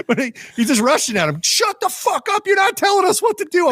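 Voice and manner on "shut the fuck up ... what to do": high, mock shouting dad; imitating furious yell. Dad swearing at the neighbor over the fence, high mock shout. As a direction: play the raging dad. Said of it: "just swearing".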